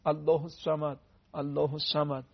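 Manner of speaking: heavy "ص" in "الصمد", tongue against the palate; full, heavy sad. Shown as a demonstration. Teacher showing viewers the full sad, heavy "الصمد".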